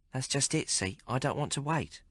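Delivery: a streetwise barmaid teasing the hero; Maggie's voice. Acted. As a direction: play her worldly and mocking. Maggie insists.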